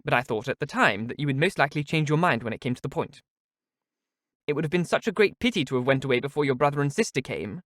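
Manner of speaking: overflowing with sly delight; Lucy, delighted. Acted. Lucy gloats to Eleanor, gushing and high. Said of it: "overpowering delight of Lucy".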